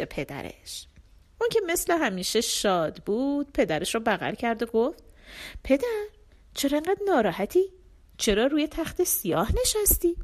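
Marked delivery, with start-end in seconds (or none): 5.6-10.2 put-on much higher, bright young girl's voice; a happy little girl asking her father; cheerful girl. Cheerful youngest daughter hugs father.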